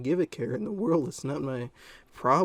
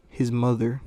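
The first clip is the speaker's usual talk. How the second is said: "His mother" said loudly for emphasis; incredulous repeat; 7 dB louder than usual. Real, not acted.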